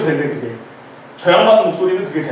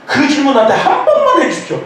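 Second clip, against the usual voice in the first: higher, louder laughing plea; pleading prayer; 8 semitones higher, 7 dB louder than usual. Retold or imitated. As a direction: beg God with a laugh. 간절한 기도 흉내. (웃으며 큰 소리로 간청)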